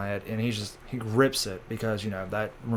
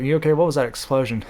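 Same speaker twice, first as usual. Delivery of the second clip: alarmed question; 3 semitones higher, 4 dB louder, faster than usual. Retold or imitated. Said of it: "And Nami's like".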